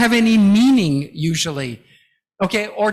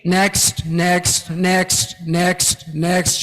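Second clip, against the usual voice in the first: flat monotone demo; much slower than usual. Shown as a demonstration. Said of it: "your voice becomes very flat".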